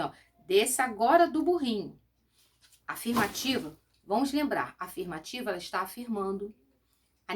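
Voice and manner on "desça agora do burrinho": louder commanding order; giving an order. Shown as a demonstration. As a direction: bark it like a firm order to a child. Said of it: "aqui ele dá uma ordem". (tom de ordem, mais alto e firme)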